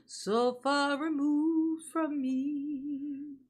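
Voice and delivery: with a gasp, each word stretched very slowly; dramatic slow drawl. Shown as a demonstration. Streamer repeats her line to chat, gasping and drawn out very slowly. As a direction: drag it out for melodrama. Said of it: "That's so far removed from me".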